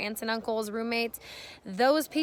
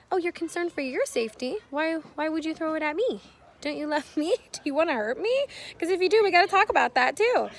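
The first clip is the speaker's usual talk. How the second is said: higher-pitched acted reproach, building to loud; exaggerated parental questioning with a laugh midway, louder at the end; mock-indignant parent; 6 semitones higher, 5 dB louder than usual. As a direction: play a parent challenging the child, growing more forceful. Acted parent confronting child, building.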